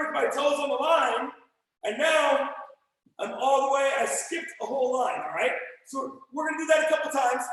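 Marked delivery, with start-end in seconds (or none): 4.0-7.4 hoarse, worn-out voice; raspy whisper of a tired voice; losing voice. Real, not acted. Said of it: "I'm losing my voice a little bit".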